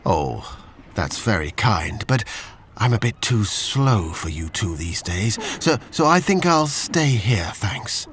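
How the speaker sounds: put-on old Labrador turning down the walk; slow old dog. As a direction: decline kindly like a weary old dog. Benji declines, old and slow.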